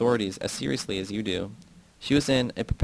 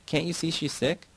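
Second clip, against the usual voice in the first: shout; 7 semitones higher, 3 dB quieter than usual. A narrator's reading. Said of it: "I shout".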